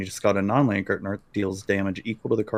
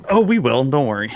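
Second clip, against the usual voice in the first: teasing; 4 semitones higher, 5 dB louder than usual. Real, not acted. Playful threat to play against her.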